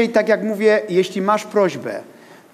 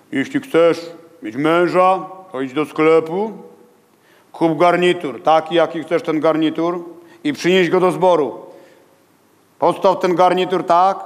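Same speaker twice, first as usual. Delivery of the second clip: lightly voiced big pastor. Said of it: "a to taki pastor wielki".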